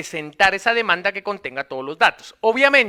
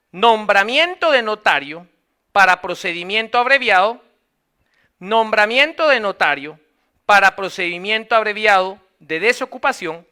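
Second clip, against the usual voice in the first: deliberate classroom dictation; measured reading for students writing it down. Acted. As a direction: dictate phrase by phrase, pausing between chunks. Dictates the first step.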